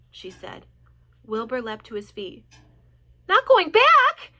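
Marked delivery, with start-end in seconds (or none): 3.3-4.3 high, loud and slow cry of shock; cried out. A narrator's reading. Wilbur crying out to Charlotte in shock. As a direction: cry it out in disbelief. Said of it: "he cried".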